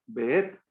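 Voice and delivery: "Beet" as be-ET, final syllable held; accento su "et". Shown as a demonstration. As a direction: lengthen and stress the "et" in "Beet". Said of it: "Con acento en la et".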